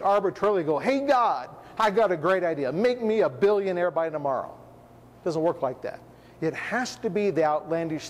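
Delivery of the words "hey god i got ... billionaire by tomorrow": mock eager request. Presumptuous believer asking God for riches, mock-eager. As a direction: pitch a great idea with mock confidence.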